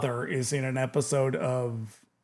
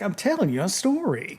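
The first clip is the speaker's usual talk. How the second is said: casual, ad-libbed imitation, softer; man talking to his dog; 3 semitones higher, 5 dB quieter than usual. Man telling his dog a story, soft ad-libbed imitation. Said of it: "feels ad-libbed a little bit 'cause he's like".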